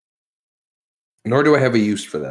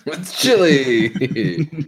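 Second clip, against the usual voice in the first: laughing; 5 semitones higher, much slower than usual. Real, not acted. Mocking repeat of friend's remark.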